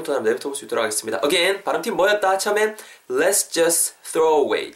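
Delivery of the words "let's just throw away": "Let's just throw away" joined up, t dropped, TH kept; natural linking. Shown as a demonstration. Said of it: "자연스럽게 붙으면서".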